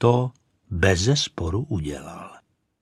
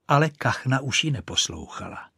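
ordinary delivery, nothing marked

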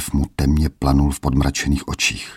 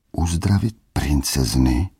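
horrified. Acted. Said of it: "hrozil se Plamínek".

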